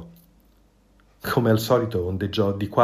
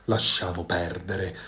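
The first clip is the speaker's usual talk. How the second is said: irritated outburst; 4 semitones lower, 6 dB quieter than usual. A narrator's reading. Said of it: "sbottò Volpe nervosa".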